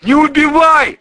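high, loud terrified howl; howling plea. Acted. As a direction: wail for your life. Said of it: "взвыл продажный милиционер". (взвыл в ужасе: не убивай)

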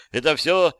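high-pitched, panicky protest; high, agitated outburst; shrieked denial. A narrator's reading. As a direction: squeal it out in disbelief. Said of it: "взвизгнула она".

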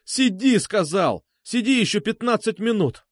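high, forceful angry command; snapped order. A narrator's reading. Сергей orders Алёна to stay, snapping. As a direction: order her, losing your temper. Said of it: "сорвался я".

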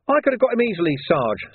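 high-pitched youthful grumble; complaining. A narrator's reading. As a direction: protest to the sergeant in a high voice. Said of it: "Sam complained".

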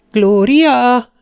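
high, loud, drawn-out shout of a name; sharp woman's call. A narrator's reading. Mother calling her daughter home, sharp and worried. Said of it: "Éles női hang szólítgatta".

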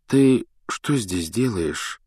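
slow, gentle question. Acted. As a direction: ask kindly. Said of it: "совсем другим тоном, чем Филч".

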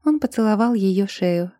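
plain reading voice

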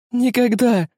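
very high, loud scream of refusal; desperate cry. A narrator's reading. Girl refuses the pirate and cries out before jumping overboard. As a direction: cry out and leap. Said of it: "воскликнула Тереза".

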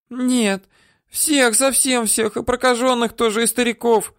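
put-on high, whiny old-woman voice; woman whining denials at her captor; whimpering.

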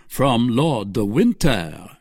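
slow, musing repeat of the name; duke repeating. Acted. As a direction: turn the name over, a touch curious. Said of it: "repeated Buckingham".

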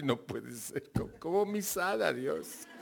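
hushed can't-believe-it gasp to God; stunned disbelief. Retold or imitated. Speaker retelling his astonished question to God, softly stunned.

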